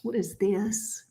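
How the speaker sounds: talking through a yawn; mid-yawn, words stretched. Real, not acted. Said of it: "I can't stop yawning".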